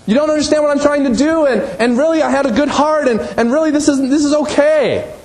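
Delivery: put-on high pleading kid protesting to Mom; whiny child. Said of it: "to say".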